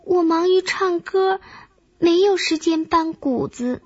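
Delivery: high-pitched grasshopper making excuses; grasshopper character voice. A narrator's reading. Grasshopper explains to the ant, in a high voice. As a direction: pitch it well up, like a small insect.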